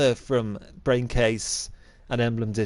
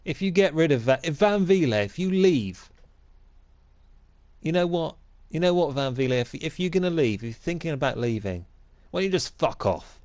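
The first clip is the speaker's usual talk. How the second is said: raised, heated rant at a departing player; angry rant; 3 semitones higher than usual. Acted. Mock manager ranting at his player Van Vliet. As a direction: spits out the insult at the end.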